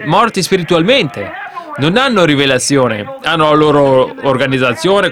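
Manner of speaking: driving preacher's delivery, pitch lifting at the peak; impassioned preaching. Real, not acted. Preacher faulting those without revelation, impassioned preaching. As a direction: press the point like a fired-up preacher. Preaches against church organizations.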